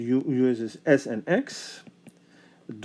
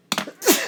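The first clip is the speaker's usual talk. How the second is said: sneezing; 4 dB louder than usual. Real, not acted. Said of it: "I sometimes get these sneezing bouts".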